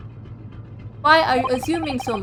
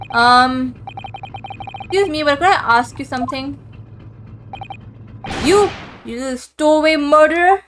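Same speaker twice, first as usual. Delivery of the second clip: mock rude approach; 3 semitones higher, 3 dB louder than usual. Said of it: "That wasn't a good start".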